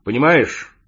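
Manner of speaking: emphatic, hesitant opening; searching for words. A narrator's reading. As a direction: begin an awkward explanation. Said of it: "подбирая слова". (подбирая слова)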